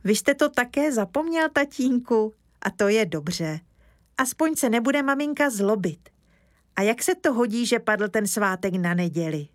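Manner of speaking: put-on high, eager child's voice; little boy. Kája explaining to Mr Lesní, high childlike voice. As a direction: speak up like an earnest small boy.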